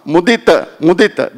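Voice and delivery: "Mudita" said with a short final "ta", twice; "Mudita" with a short end vowel. Shown as a demonstration. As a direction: repeat "Mudita" keeping the last vowel short. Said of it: "Not long a".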